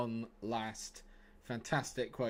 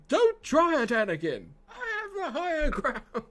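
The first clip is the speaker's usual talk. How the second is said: high, strained Obi-Wan, half laughing; Obi-Wan impression; 8 dB louder than usual. Streamer doing a hammed-up Obi-Wan for chat. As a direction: cry it out like a desperate Jedi master. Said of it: "the impressions".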